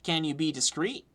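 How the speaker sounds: put-on cagey child with a light Cockney accent; Lucky, Cockney. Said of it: "Your name is Lucky".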